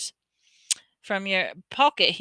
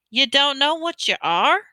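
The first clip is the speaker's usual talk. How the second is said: higher, louder bewildered question; amazed; 6 semitones higher, 5 dB louder than usual. A narrator's reading. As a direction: ask in bewildered disbelief. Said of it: "said finally".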